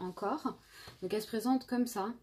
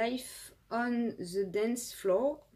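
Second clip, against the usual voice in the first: slow, careful English accent on a French speaker; playful English accent, pleased with herself; 2 semitones higher, much slower than usual. Shown as a demonstration. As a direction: say the palette name in her best English accent, slowly. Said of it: "Pas mal mon accent".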